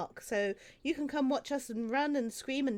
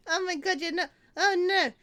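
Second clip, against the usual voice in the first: high, loud anguished cries; loud dismay; 7 semitones higher, 9 dB louder than usual. Real, not acted. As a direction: wail at the failed roll. Players fail the roll.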